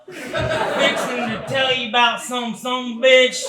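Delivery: a hint of a rowdy Texas redneck; redneck Texan accent. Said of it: "talk like a redneck racist Texan".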